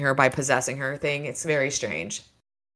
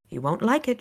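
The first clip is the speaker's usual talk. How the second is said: intoned; 7 semitones higher, 3 dB quieter than usual. Acted. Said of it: "Justine intoned".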